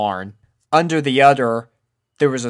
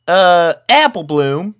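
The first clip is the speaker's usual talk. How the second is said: hesitant, slow, drawn-out country voice; doubtful big sister holding back; 7 semitones higher, 8 dB louder than usual. A narrator's reading. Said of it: "unsure of the situation".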